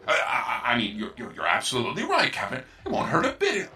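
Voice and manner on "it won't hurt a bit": sinister chuckle. Acted. Computer's sinister reassurance.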